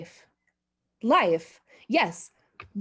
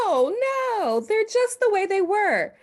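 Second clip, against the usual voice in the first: much higher and louder, frantic; panicked denial; 12 semitones higher, 3 dB louder than usual. Acted. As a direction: deny it in high nervous panic. Denies moving glasses, panicked.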